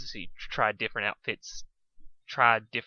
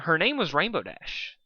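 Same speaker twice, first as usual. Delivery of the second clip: uncertain; 6 semitones higher than usual. Acted. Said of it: "Duskshine said uncertainly".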